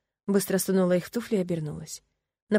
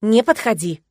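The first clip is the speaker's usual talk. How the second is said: louder frightened order to stay back; loud warning; 3 semitones higher, 7 dB louder, slower than usual. A narrator's reading. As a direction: keep the cat away. Girl warding cat off. (громкий испуганный приказ)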